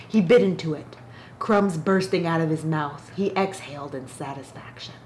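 steady, slightly hushed book reading; reading a novel excerpt aloud to viewers; story reading. Acted. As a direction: read the passage evenly, letting it breathe. Reads book passage aloud.

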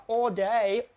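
slow all day with the tongue pressed up for the L in "all"; "all" held long, tongue pressed up on the final L; clear final L. Shown as a demonstration. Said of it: "cố gắng làm sao ấn lưỡi lên L".

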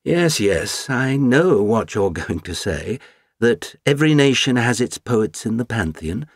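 the Count orating. Acted. The Count's speech on writers.

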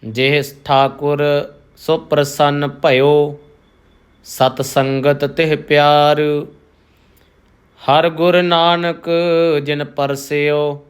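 measured, devout reading of Gurbani; slow scripture recitation. Acted. Teacher reciting the shabad for the congregation, slow and devout. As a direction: recite each phrase slowly with reverence.

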